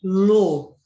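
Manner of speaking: ALÔ drawn out as aa, lô; slow, by syllables. Shown as a demonstration. Teacher showing duas sílabas, ALÔ said slowly in pieces. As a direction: split ALÔ into two long, separate beats. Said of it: "Fala devagar".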